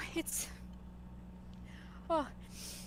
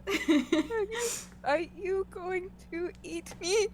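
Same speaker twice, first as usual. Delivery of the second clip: scared dryad; 4 semitones higher, slower than usual. Acted. Dryad fearful question.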